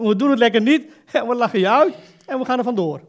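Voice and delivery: loud mocking line broken by laughs; laughing mockery. Preacher mocking lying politicians to the church, loud laughing jeer. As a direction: laugh at them while you shout it.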